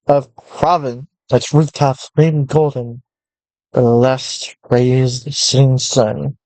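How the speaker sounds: measured storyteller read; story narration. A narrator's reading. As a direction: narrate the landscape calmly. Reads game text as narration.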